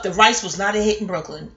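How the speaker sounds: measured, declarative storytelling line; book title sound. Real, not acted. Storyteller admitting the party rice failed, like a chapter title. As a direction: state it like a chapter heading. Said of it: "why did I sound like a book title or a chapter title?".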